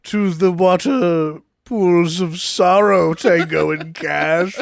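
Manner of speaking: slow, lightly voiced ominous welcome; mock menacing villain. Friend mocks the villain's grand welcome, half-hearted menace. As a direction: drag it out like a hammy villain. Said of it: "It seems a lot more menacing".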